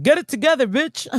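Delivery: loud, high mock telling-off; friend's scolding. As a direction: imitate a friend snapping you out of tears. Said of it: "He like".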